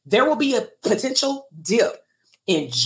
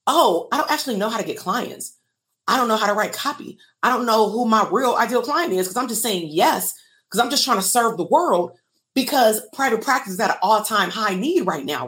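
imitating therapists. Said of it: "therapists realized".

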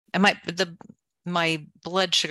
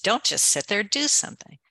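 quoting the adage in a higher, mocking lilt; mocking the old adage; 5 semitones higher, 4 dB louder than usual. Speaker quotes the old adage to reject it, mock lilt. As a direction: toss off the saying you disagree with. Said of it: "unlike the old adage".

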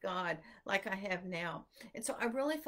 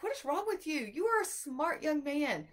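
higher, exasperated mom scolding her son; mock the frustration of a mother at the end of her rope; retold exasperation at a son who won't focus; 4 semitones higher than usual. Mom scolding son over reading.

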